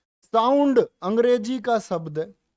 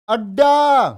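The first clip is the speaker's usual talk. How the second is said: called-out example; 4 semitones higher, 8 dB louder, much slower than usual. Shown as a demonstration. Teacher calls out example word.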